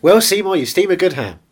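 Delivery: Simpsons quote voice. Retold or imitated. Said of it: "these are Simpsons quotes".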